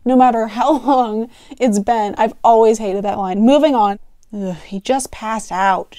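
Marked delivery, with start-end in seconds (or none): 4.3-6.0 slow, irritated growl; unsympathetic growl. Acted. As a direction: growl it dismissively. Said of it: "she growled unsympathetically".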